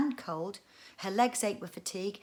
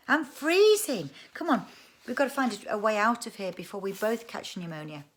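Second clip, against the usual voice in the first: shivering with cold; 3 semitones higher, 7 dB louder than usual. Acted. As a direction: urge him on, shivering. She shivered, cold in cave.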